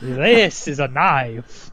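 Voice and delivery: slow, weighty "This is a knife."; slow movie quote. Retold or imitated. Player quoting a film line, slow and deliberate. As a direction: drag it out like the famous film line. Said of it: "You call that a knife?".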